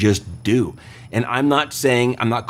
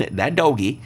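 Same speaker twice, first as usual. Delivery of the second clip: laughing; 2 semitones higher than usual. Real, not acted. Host amused by the word doggy, laughing. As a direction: chuckle through the word doggy.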